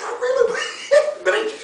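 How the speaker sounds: high, giggly and quick; giggling tease. Acted. Rabbit teasing fox about his secret, giggling high. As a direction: keep breaking into laughter between words.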